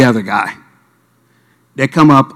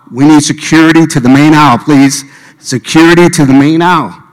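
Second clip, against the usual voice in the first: hammed-up usher announcement; mock security call; 3 semitones higher, 4 dB louder than usual. Imagined security call over aisle.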